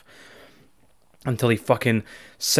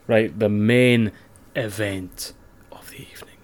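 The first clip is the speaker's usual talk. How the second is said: mock announcer; 3 semitones lower than usual. Cohost hands over to the main event, mock announcer voice.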